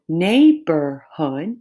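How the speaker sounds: NEIGHBORHOOD in three separate beats; three syllables. Shown as a demonstration. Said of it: "I have three syllables".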